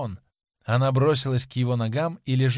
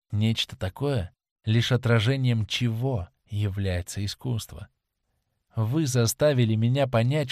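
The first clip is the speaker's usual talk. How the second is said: lightly voiced actress confessing her love; impassioned young actress. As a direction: pour out a fervent confession, understated. Voices Sibyl's long confession. (слегка сыгранная пылкая исповедь актрисы)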